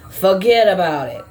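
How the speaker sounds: put-on a light Boston accent, "Forget" slightly dropping its r as "Fuhget"; Boston accent, Sam Adams ad style. Reader imitates the Boston guy from the beer commercials in a light Boston accent. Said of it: "Like the guy on the, the Sam Adams commercials".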